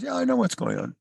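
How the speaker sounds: high-pitched, lightly voiced frog; frog character. Boiling frog answering the man, unbothered frog voice. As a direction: pitch it way up for a cartoonish frog reply. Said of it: "Frog says".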